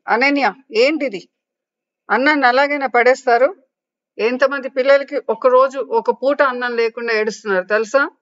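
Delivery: put-on mother shouting at a child who threw food; mother angrily scolds her daughter for spilling rice; scolding mother. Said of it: "అని అరిచింది".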